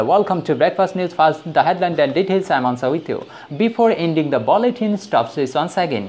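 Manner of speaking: slow, measured lightly mimicked news anchor; newsreader imitation. Teacher mimics TV news anchor for students, slow and measured. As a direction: read it like a TV newsreader opening the bulletin. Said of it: "টিভিতে যখন খবর দেখেন, কীভাবে বলে?".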